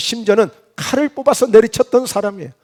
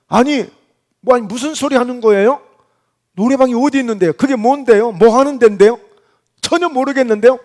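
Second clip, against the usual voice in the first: playing innocent, slightly raised voice; feigning ignorance; 3 semitones higher than usual. Preacher caught about the karaoke room, mildly indignant feigned ignorance. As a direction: deny it as if baffled by the question. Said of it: "이런 식으로 지금 베드로가 시침을 떼는 거예요".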